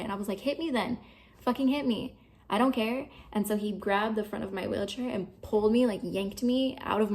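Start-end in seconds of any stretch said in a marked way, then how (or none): 0.4-3.1 higher-pitched, challenging retort; re-enacted defiance, pitched up; retold defiant dare. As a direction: act out daring someone to go ahead. Daring brother during retold fight.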